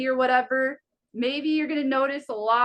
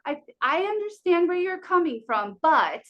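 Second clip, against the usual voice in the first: customer service voice; 4 semitones higher than usual. Shown as a demonstration. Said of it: "use the customer service voice".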